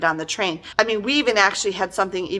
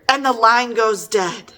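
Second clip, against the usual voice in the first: mock thriller line; 2 semitones higher, slower than usual. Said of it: "Or here".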